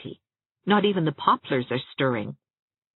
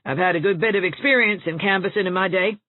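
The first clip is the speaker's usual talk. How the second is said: Rebecca Dew advising; 3 semitones higher than usual. A narrator's reading. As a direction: give blunt practical advice. Rebecca continues her advice.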